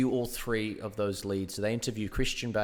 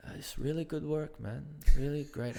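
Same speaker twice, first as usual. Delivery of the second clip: staying in character; 5 semitones higher than usual. Retold or imitated. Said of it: "stayed in his character".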